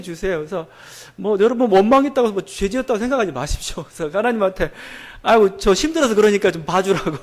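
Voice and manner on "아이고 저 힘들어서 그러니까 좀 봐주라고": laughing plea. Retold or imitated. Joking plea to God.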